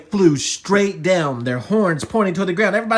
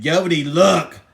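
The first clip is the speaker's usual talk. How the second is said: insistent call; 7 dB louder than usual. Acted. Buttercup calls a second time.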